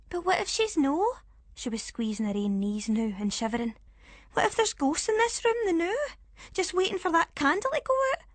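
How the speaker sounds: put-on high, anxious child's voice; a frightened girl pleading; little Jenna, high and fearful; scared little girl. Child character voice.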